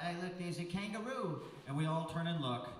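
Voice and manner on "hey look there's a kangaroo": mock shout. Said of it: "somebody from the crowd shouts out".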